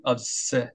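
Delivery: "obs-" stopping on a long hissed s; held S sound. Shown as a demonstration. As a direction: hold the s at the end of "obs-" slowly. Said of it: "음이 스에서 이탈이 되면 안".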